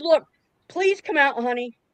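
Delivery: mocking, put-on pleading voice. Describing what a man's mom would have said to talk him down, imitating a pleading mother. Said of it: "their mother's voice pleading with them".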